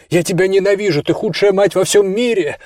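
high, hurt furious outburst; angry yell. Acted. Son screaming hatred at his mother, high and angry. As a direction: throw the words at her. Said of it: "закричал я".

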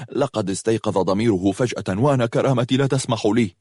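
usual speaking voice

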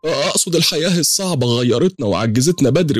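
very high, wailing protest; high-pitched acted old woman crying out; distraught old woman. A narrator's reading. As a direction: plead frantically for him to be let go. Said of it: "ست كبيرة".

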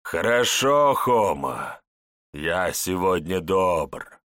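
slow, gloating cruel elder; villain voice. Acted. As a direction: savour the humiliation. Elder humiliates the woman.

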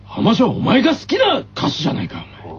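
two rivals trading jabs; acted rival quarrel. Kaidoh and Momoshiro arguing in the drama. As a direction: bicker like tennis club rivals.

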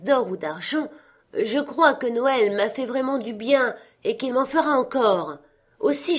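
a lightly voiced young nephew, earnest and bright; cheerful nephew. Nephew defending Christmas to his miserly uncle, earnest.

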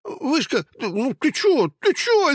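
high, squeaky panicked babble; scared guard babbling at his tormentor; frightened babbling. Acted. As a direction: plead in terror. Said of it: "испуганно залепетал фонарь".

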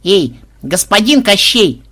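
loud, high, stretched hail; calling out. A narrator's reading. Granddaughter hails the villain running past, calling out. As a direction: hail him slowly from across the garden. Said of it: "внучка крикнула".

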